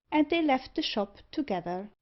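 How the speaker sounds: usual speaking voice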